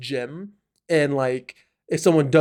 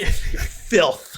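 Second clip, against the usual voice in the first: mock-contemptuous whispered insult; venomous whisper. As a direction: whisper it like a secret curse. Muttered insult with death stare.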